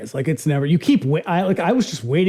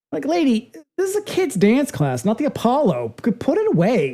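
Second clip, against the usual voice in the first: mock exasperated scolding; 7 semitones higher than usual. Real, not acted. Mocking showboating dance teacher.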